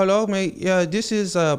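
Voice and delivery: put-on friendly Indian English accent. Retelling a tech team member's opening on a conference call, in an indian accent. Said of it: "the first thing I hear was like an Indian accent".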